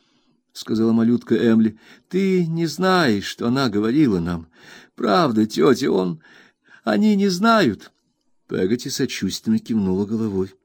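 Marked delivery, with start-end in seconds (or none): 2.1-7.9 put-on high, pleading girl's voice; a child insisting, close to tears; Emily pleading with Peggotty, high and urgent; pleading little girl. A narrator's reading.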